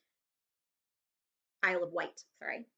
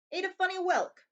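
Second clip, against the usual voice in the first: gruff remark; 9 semitones higher, 4 dB louder than usual. Acted. Vernon reading postcard.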